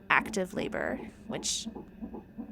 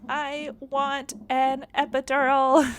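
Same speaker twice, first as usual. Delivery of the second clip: pleading demand; 7 semitones higher, 7 dB louder, slower than usual. Retold or imitated. Demanding pain relief in labor.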